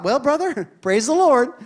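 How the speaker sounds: amused praise. Retold or imitated. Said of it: "I thought".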